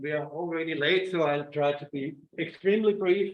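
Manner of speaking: muffled by a face mask; speaking through a mask. Real, not acted. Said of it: "I hope you can hear me through the mask".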